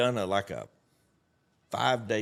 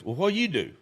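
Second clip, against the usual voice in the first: higher, louder eager question; cheery kid; 8 semitones higher, 5 dB louder, faster than usual. Retold or imitated. Cheery kid presses him at the bar, eager and loud. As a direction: chirp it like a nosy happy kid. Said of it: "Joe Cheery".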